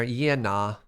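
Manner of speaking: playful Australian "yeah, nah"; casual mock-Australian; Australian accent. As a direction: lean lightly into an Australian accent. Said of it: "Turned very Australian for a second there".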